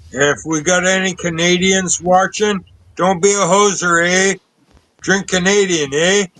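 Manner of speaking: put-on light, joking Canadian hoser accent; mock Canadian. Drinker urging Canadian viewers to drink, mock Canadian accent. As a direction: play the Canadian hoser with tagged-on "eh".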